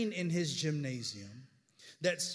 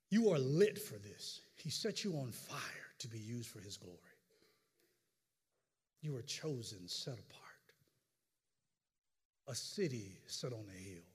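intimate sermon; 8 semitones lower, 7 dB quieter than usual. Real, not acted. Pastor telling the congregation they are chosen, soft low exhortation. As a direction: draw the listeners in, quietly.

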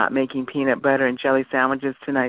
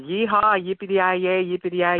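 higher, hammed-up cowboy yeehaw; mock cowboy whoop; 4 semitones higher than usual. Host teasing a Texas caller with a hammed-up cowboy whoop.

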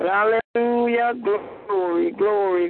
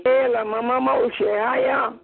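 speaking in tongues. Real, not acted. Prayer in tongues.

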